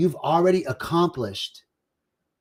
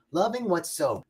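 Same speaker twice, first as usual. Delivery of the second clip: "Loving what's so" said again, softer and inward; softer repeat; 2 semitones higher, 5 dB quieter than usual. Shown as a demonstration. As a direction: let the second "Loving what's so" sink into a softer voice.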